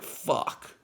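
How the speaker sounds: whispered curse of mock dismay; hushed, deflated expletive. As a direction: whisper it as it sinks in. Acting dismay at needing Spanish.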